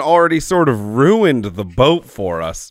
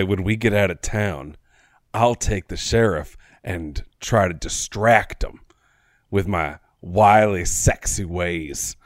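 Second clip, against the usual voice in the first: confidential murmur; 6 semitones lower, 6 dB quieter than usual. Acted. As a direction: lean in and share the plan secretly. Leans over to confide a plan.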